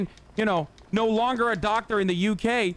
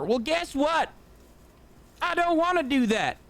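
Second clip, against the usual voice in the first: a hint of a proud troglodyte refusing progress; mock caveman conservative; 2 semitones higher than usual. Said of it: "That's literally the attitude that she has".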